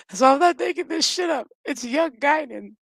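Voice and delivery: high-pitched, fighting back laughter; real laughing insistence. Real, not acted. Host swearing it's not made up, laughing.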